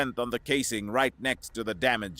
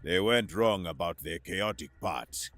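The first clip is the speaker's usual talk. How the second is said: grunt; 6 semitones lower, 3 dB quieter than usual. A narrator's reading. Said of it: "Gavin grunted".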